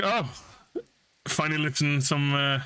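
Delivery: high teasing jab; mock-surprised teasing at Jeffrey; cheeky teasing. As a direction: rib him playfully.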